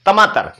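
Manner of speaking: lightly imitating a lisping toddler on टमाटर; child's lisp. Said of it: "छोटे बच्चे तुतलाते हैं".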